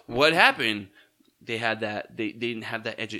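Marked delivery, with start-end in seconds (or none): 0.1-0.9 surprised. Retold or imitated. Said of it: "You're like".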